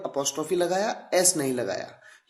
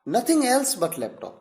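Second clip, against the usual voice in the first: very slow and a little higher; slow, emphatic example; 6 semitones higher, much slower than usual. Shown as a demonstration. Teacher stressing the laptop is the focus, slowly. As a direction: stretch it out, leaning on laptop. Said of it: "यानी laptop चाहिए".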